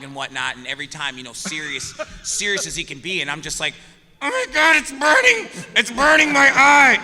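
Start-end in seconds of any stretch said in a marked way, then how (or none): 4.2-7.0 high, loud hammed-up yelp of pain; hammed-up cry of burning eyes; mock pain yell. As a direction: scream like your eyes are on fire. Retold paint thinner in eyes.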